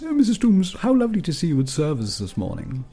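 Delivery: high, sing-song country vicar; gushing old country vicar greeting. Acted. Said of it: "I'm practicing my vicar voice".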